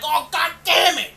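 put-on high, loud childish outburst; like a kid caught at midnight; mock tantrum. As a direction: throw a kid's tantrum. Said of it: "he's like".

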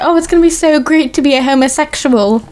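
lightly attempted Australian accent; hammed-up but slight Aussie twang; terrible Australian accent. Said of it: "That was a terrible accent".

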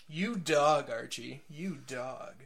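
playful jab at Archie; mock scolding a friend; teasing. Real, not acted. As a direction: call him a dog, grinning.

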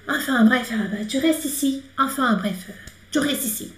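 lightly French phrase "enfin, bref, tu restes ici"; French example phrase. Shown as a demonstration. Teacher giving students a French example, lightly French. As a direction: say it like a casual French speaker. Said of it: "como por exemplo".

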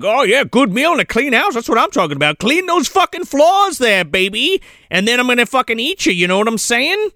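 leering, relishing sadist; gloating ogre. Retold or imitated. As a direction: savor the threat. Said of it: "He's like".

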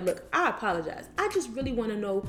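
level, restrained apology; retold calmed-down apology. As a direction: rein it in and explain yourself. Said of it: "he, he calmed down".

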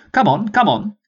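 a high, formal commanding officer; rally the troops like an old sergeant; sergeant's voice. Acted. Peabody hurries the troops.

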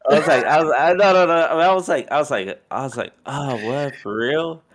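high, loud, laughing through the words; can't hold back the laugh; cracking up while retelling; laughing disbelief. Real, not acted.

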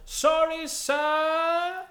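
loud, high, slow British dealer; affected professional British, stretched right out; Chegwin. Acted. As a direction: announce it like a pompous croupier. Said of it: "he's put on the voice to sound more professional".

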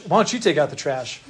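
mildly acted back talk; mouthing off. Preacher acts a kid answering a parent, mild mouthing off. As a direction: throw the chore back at a parent, understated. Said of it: "mouthed off to your mom or dad".

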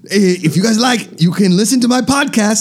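hammed-up, wobbly German-accented podcast plug; bad German accent. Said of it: "I'm going to a German accent".

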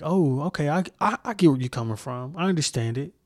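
softly understanding, conceding; empathetic. Acted. Speaker models a supportive reply to someone's cause, empathetic. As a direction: say it gently, as if taking their point. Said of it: "kinda empathetic".

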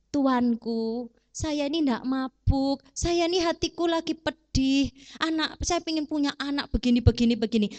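polite plea. Retold or imitated. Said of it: "Lalu Hana berkata dengan sopan".

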